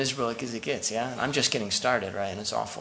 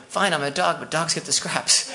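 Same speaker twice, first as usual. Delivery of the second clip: cheeky retort; 4 semitones higher than usual. Retold or imitated. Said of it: "She's like".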